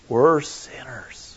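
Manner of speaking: slow whispered confession. Acted. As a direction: breathe it like a secret admission. Confessing in an aside.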